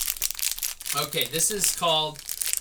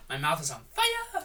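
whispering. Real, not acted. After spicy candy.

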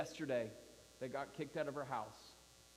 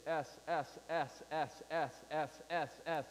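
drawn-out s like a snake; slower than usual. Shown as a demonstration. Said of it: "It's more like S".

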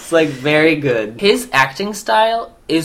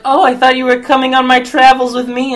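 wounded magician; 7 semitones higher than usual. Retold or imitated. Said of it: "he's like".

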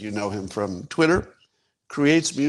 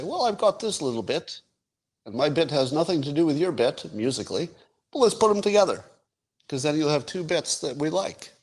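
higher-pitched mock Liverpool accent; a famous band's accent; 5 semitones higher than usual. Band member suggesting they combine two bits, higher band-member accent. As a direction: play a band member with a light Liverpudlian lilt. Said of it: "this is my Beatles accent".

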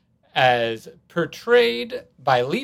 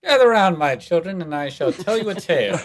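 booming spooky storyteller, higher and louder; horror host; 4 semitones higher, 5 dB louder than usual. Pretend. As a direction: summon the kids for a creepy tale. Mock grand storyteller opening.

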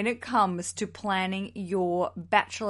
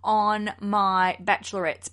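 imagined refusal. Acted. Listener refusing an exercise class for her party, mock indignation. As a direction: balk at it, word by word. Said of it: "And you're like".

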